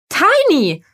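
lauter Ruf. A narrator's reading. Sue ruft den Nächsten auf.

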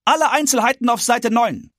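high, loud crier's call, slightly reined in; town crier voice. Acted. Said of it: "nicht ganz so laut hinzu".

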